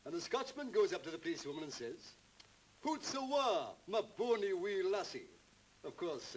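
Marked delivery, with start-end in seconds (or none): 2.8-5.3 joke-teller's higher-pitched mock Scottish; bad Scottish accent. Man telling a friend a joke about a Scotchman, mock Scottish. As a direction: put on an unconvincing Scots accent. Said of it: "can't quite get the accent".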